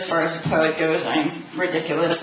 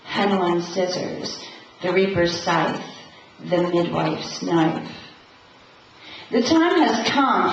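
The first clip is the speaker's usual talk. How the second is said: deliberate, incantatory poem recital; measured spoken verse with set pauses between images; poetry reading; 2 semitones lower than usual. Acted. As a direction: recite it line by line, like an invocation. Reads own poem to audience.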